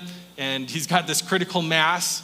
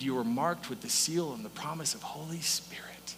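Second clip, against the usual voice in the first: whisper; 7 dB quieter than usual. Acted. Preacher drops to hush.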